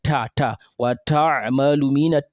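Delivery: ta said the way one part of the country does; imitating a regional ta; regional error. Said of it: "This is a very wrong pronunciation".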